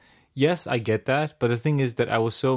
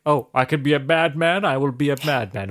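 slow, mock-pleased actor; Martin Freeman. Actor offered a first villain role, lightly imitated. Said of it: "the first he got, like".

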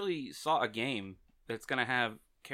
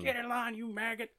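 barking high drill sergeant yell. Retold or imitated. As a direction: bark orders like a drill instructor. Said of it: "like a drill sergeant toxic".

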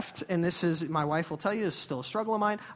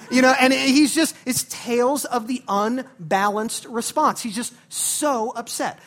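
exasperated emphasis; 5 semitones higher, 9 dB louder than usual. Acted. Preacher's exasperated commentary.

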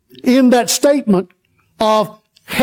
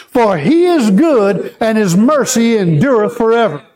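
call and response. Shown as a demonstration. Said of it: "Once again".

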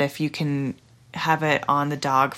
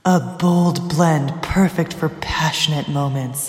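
slow, put-on seductive read; sultry voice; 3 dB louder, slower than usual. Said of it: "she's gonna use her sultry voice".

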